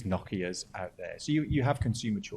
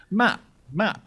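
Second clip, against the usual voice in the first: calling out; 11 semitones higher, 9 dB louder than usual. Real, not acted. Host calls on next speaker.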